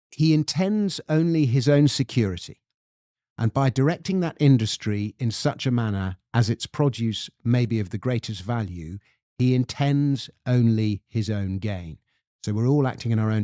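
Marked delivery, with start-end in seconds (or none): 0.1-12.0 measured English-accented quote reading; lovely English accent. Shown as a demonstration. Host reads Adam Smith's quote to co-host, lovely English accent. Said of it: "read it out to you in my lovely English accent".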